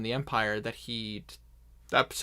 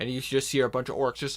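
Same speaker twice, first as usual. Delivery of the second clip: normal talking voice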